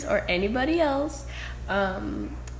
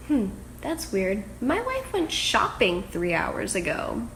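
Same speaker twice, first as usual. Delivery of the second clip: slow puzzled reply. Retold or imitated. Quotes husband's puzzled slow reply.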